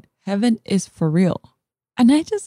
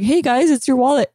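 calling out; 3 semitones higher, 6 dB louder than usual. Retold or imitated. Calling out to departing relatives.

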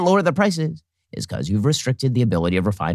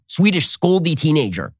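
normal talking voice

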